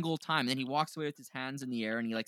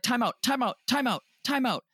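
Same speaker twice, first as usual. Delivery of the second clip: high, frantic calls of time out, imitating a cowering boxer; mock panicked yell; 11 semitones higher than usual. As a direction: beg for a timeout in a high panicky voice. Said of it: "Or he'll be like".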